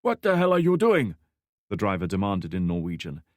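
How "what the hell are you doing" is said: higher, louder, demanding driver's voice; gruff old man. Acted. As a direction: bark it like a startled old driver. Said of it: "a gruff Norwegian voice".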